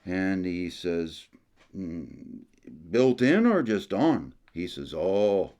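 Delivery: put-on storyteller Jacques with a lightly held Acadian French accent. Jacques tells tourists about his brother, Acadian French accent. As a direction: spin the yarn as a folksy Acadian uncle, French accent.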